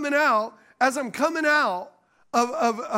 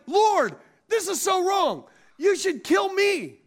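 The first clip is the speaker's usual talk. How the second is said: high, slow, drawn-out complaint to God; mock-indignant prophet wailing at the Lord; upset; 8 semitones higher, 4 dB louder, slower than usual. Preacher acting out Jonah complaining to God, upset. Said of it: "Jonah's upset ... he's like".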